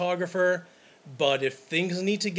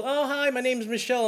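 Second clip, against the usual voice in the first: imitating a bridesmaid; 7 semitones higher than usual. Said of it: "And they'll".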